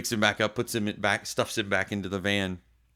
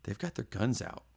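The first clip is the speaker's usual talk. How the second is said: monotone quiet; 2 semitones higher, 7 dB quieter than usual. Retold or imitated. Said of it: "in a very monotone, quiet voice".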